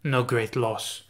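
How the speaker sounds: light attempt at a German accent, dry and mocking; a hesitant German accent for a sneering quip; an amateur German accent, lightly put on; Nightcrawler German accent. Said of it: "I can't do a German accent".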